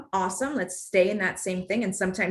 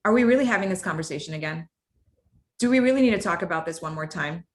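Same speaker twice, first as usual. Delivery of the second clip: low, firm weary question; low, strong tone; 3 semitones lower, faster than usual. Shown as a demonstration. The tone used with her kids, low and strong. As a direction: keep it low and heavy. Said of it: "lacking the higher frequency can also sound too strong".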